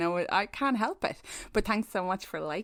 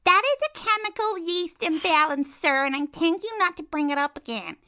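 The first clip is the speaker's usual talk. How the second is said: loud, mock-offended telling off, higher; mock indignant; 6 semitones higher, 6 dB louder than usual. Annie telling Will off for a joke, mock indignant. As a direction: play outraged to tease him.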